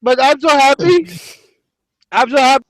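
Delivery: a lightly voiced Englishman calling to Petra, happy; put-on English accent. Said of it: "but I'm English right now".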